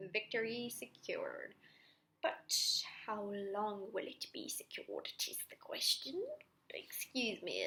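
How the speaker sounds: whispered, put-on British accent; mock British accent. Student jokingly narrates the victory in a British accent. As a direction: slip into a sly British accent. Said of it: "I'm British all of a sudden".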